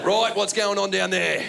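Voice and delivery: mock officious suspicion; security guard. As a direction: question it slowly like airport security. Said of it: "the security guys go".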